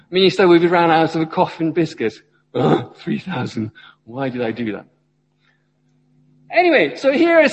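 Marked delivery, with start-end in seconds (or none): 0.1-2.2 helper complaining. Acted. Church helper complains, acted skit. 2.5-4.9 weary groan. Acted. Minister groans after the skit.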